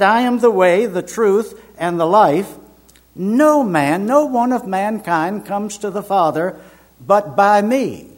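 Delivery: high, loud scripture declaration; emphatic quotation. Retold or imitated. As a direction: proclaim each phrase firmly, with pauses. Quotes the same emphatic verse to doctor.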